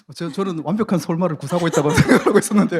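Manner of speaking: loud, laughing, chuckling protesting tone.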